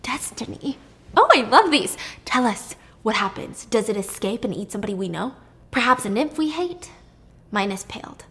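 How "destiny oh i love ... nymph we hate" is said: eager, gossipy questions, pitch jumping up; excited. Retold or imitated. Pasiphae begging Circe for the prophecy, lightly excited. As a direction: lean in, hungry for the gory prophecy. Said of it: "Pasiphae was excited".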